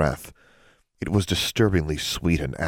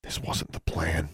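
slow, soft thinking voice; inner thought; 7 dB quieter, slower than usual. A narrator's reading. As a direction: say it as a private thought. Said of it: "she thought".

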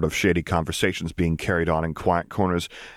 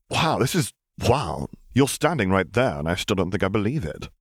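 Justice; 2 semitones higher than usual. Acted. Justice voiced.

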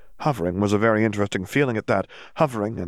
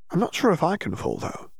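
put-on dreamy girl; 9 semitones higher than usual. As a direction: brush off worry in a floaty haze. Dazed Hermione.

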